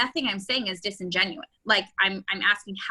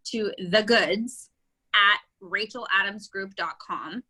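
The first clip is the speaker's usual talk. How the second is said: slow dictation; slower than usual. Shown as a demonstration. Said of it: "one thing I will tell you".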